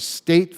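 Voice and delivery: "state" leaned on, said firmly; stress on state. Real, not acted. Senator to the committee, hitting "state". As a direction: press down on "state" to make the point. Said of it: "I emphasize".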